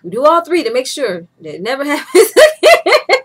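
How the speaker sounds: playful Asian-accent impression, punched out emphatically; imitated Asian accent. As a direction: imitate an Asian doctor's accent, laughing near the end. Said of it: "so that accent, he goes".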